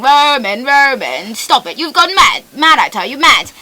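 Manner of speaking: a mum calling her son out as mad; Martha. Acted. Character's mom pleading with Roman, British mother voice. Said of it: "that's his mom at the end ... She's saying".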